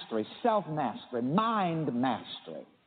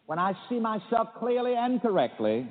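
higher, deliberate call to repeat; affirmation lead; 5 semitones higher than usual. Shown as a demonstration. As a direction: lead the line for the congregation to echo. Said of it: "Repeat it after me".

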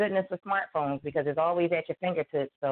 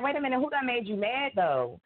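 higher, indignant mock challenge; mock mad protectiveness; 6 semitones higher than usual. Friend switching from tears to mad on someone's behalf, mock indignant. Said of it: "be mad and be like".

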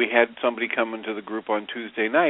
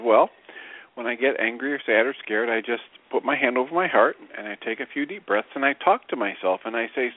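put-on Jewish grandmother accent. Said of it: "grandmotherly Jewish accent voice".

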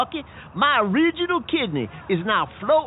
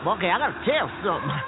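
panting, out of breath; 4 semitones lower, faster than usual. Acted. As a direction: gasp between words, out of breath. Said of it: "I gotta catch my breath".

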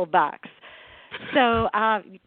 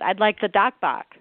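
put-on Boston accent. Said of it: "my mother said".

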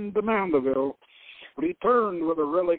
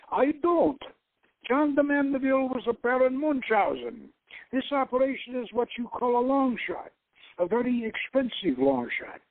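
a slightly higher, brisker director's voice; lightly voiced director dismissing the quest; 4 semitones higher than usual. Director Valescu tells Doc it's a long shot, lightly voiced.

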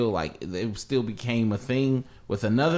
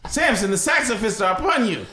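solemn biblical proclamation; mock biblical prophet; 6 semitones higher than usual. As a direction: announce it like scripture. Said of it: "sound like some of biblical proportion".

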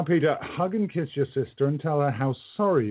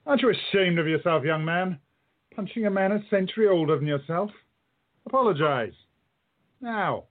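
quiet menace; 7 semitones higher than usual. Acted. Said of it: "Though his voice didn't change, there's a menace in it".

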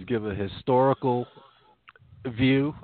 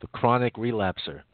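chewing candy while talking; mouth full. Real, not acted. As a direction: talk round a piece of candy. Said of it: "Apologies if you hear me chewing on candy".

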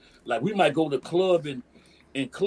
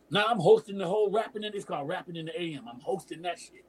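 ordinary delivery

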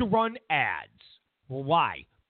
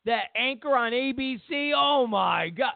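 mock Trump rally voice; 6 semitones higher than usual. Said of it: "And he's saying".

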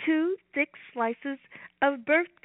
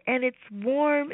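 warm; slower than usual. Real, not acted. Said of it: "It's golden".

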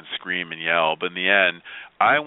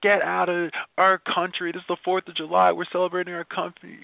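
retold hateful outburst; 9 semitones higher than usual. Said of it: "she proceeded to be like".

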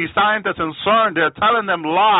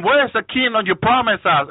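mild, higher-pitched protest; crying witches; 5 semitones higher than usual. Retold or imitated. Witches asking Satan for the promised kingdom, lightly acted plea. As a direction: lightly imitate a pleading complaint, pitched up. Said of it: "they keep crying to Satan for help".

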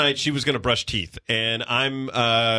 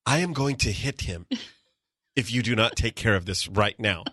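mock seething threat; 4 semitones lower, 3 dB quieter than usual. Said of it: "She goes".

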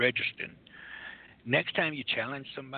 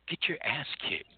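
whispered jab; 2 semitones higher than usual. Acted. Mocking aside in interview.

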